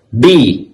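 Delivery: "Bicicleta" split as bi, ci, CLE, ta; stress on penultimate syllable. Shown as a demonstration. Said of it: "O clé". ("Bicicleta" sílaba por sílaba, força no cle)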